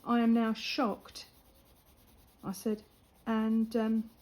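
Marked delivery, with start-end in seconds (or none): 0.0-1.2 slow, deliberately prim disapproval; drawn out, pretend-appalled; mock shocked. Telling off the rude lad, slow and mock-prim. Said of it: "I looked at him and I went".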